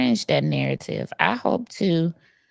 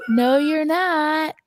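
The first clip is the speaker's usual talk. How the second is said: imitating Winters; 9 semitones higher, slower than usual. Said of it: "She'd be like".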